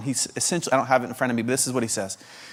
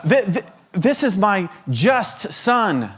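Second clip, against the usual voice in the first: mock alternate blessings; 7 semitones higher than usual. Pastor inventing God's wrong words, lightly hammed-up. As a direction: play the God who never said it.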